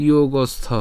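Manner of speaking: "যোগস্থ" with an aspirated th after the s; careful pronunciation. Shown as a demonstration. Teacher answers how it is pronounced, careful "যোগস্থ". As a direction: say "যোগস্থ" carefully, sounding the final থ. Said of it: "তাই উচ্চারণ কেমন?".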